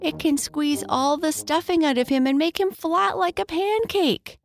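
put-on high-pitched distressed little boy; insisting. A narrator's reading. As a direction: argue in a high child's voice. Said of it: "insisted Archie".

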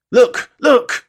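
high, loud eager cry; excited exclamation. A narrator's reading. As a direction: point and call out, thrilled. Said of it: "exclaimed the Canadian".

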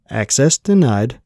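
slow, synthetic announcement voice; computer voice. Acted. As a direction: read it like an automated system. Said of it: "a fake-sounding female voice said".

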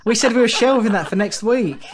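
high, loud exasperated telling-off; mock outrage. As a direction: play up the indignation at a partner who wasn't listening.

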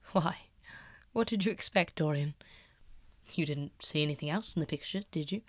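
lightly voiced painter, half-hushed and earnest. Basil confessing to Dorian, hushed and earnest. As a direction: let it drop low and confiding.

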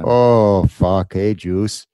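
hammed-up Canadian accent, loud opening; terrible Canadian accent. Co-host hailing his podcast partner, bad Canadian accent. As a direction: open big with a cartoon Canadian accent. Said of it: "that terrible accent".

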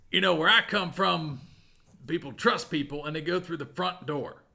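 put-on old prospector. GM voices Deputy Bob.

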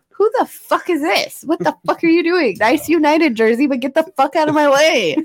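mock road rage. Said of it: "I was literally like".

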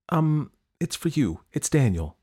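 hesitant, starting high; a bit reticent. A narrator's reading. Mom announcing the boyfriend's call, a bit reticent. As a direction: pass the news on reluctantly. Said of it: "sounding a bit reticent".

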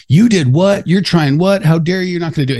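high-pitched scandalized relative, indignant questions; mock outrage. Family reacts to the new business, mock outraged. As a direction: act out an appalled family member.

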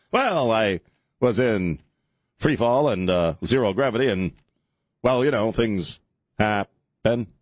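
halting excuse with breaks mid-phrase; lightly imitated Shatner. Host plays Shatner excusing an accident, halting light impression. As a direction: pause oddly between fragments, lightly mimicking the actor. Acts out Shatner explaining himself.

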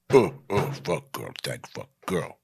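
low, soft caveman grunting; caveman Steve. Acted. Caveman talking to himself, low and quiet. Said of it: "much like an Australopithecus".

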